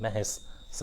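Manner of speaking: महेश ending in a long hissed "sss"; hissing final s. Shown as a demonstration. Teacher showing students the hissing sound at the end of महेश, long hissed s. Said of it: "hissing sound आते हैं ना उनमें".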